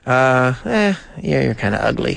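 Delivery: a wise-cracking dummy, dry and rude; cheeky puppet voice. Acted. Puppet Chuck insults the host.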